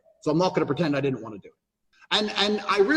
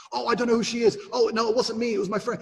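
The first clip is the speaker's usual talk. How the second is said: mock lying excuse; 6 semitones higher than usual. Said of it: "and I'm like".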